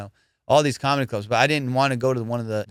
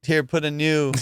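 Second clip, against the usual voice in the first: flustered owner; 5 semitones higher than usual. Retold or imitated. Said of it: "He's like".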